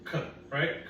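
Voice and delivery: "K" said as a soft, voiceless k; a hushed, voiceless "K"; unvoiced k sound. Shown as a demonstration. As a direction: breathe out only the "K". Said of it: "What's the first sound".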